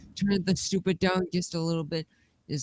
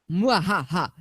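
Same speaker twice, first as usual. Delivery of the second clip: sneering panto villain cackle; 2 semitones lower than usual. Pretend. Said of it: "he's evil again".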